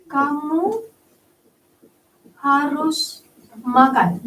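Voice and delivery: slow, deliberate command; teacher rereading the command example; firm order. Shown as a demonstration. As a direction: lay down the order word by word. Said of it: "Diakhiri dengan tanda seru".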